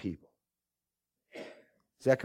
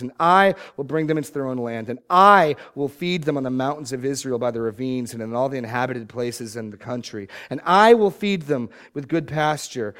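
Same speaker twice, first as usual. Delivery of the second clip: strong preaching read with I stressed; scripture reading; 4 dB louder than usual. Acted. Preacher reading God's promise to shepherd his flock, proclaiming. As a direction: proclaim each I will promise.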